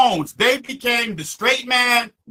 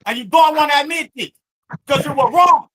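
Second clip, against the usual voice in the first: higher-pitched, insistent arguing; heated accusation; 4 semitones higher than usual. Real, not acted. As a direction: drive the point home, exasperated. Heated argument over a word.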